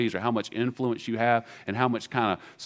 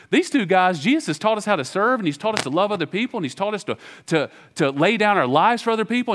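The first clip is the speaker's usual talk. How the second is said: indignant disciples; 7 semitones higher, 3 dB louder than usual. Retold or imitated. Preacher voices indignant disciples.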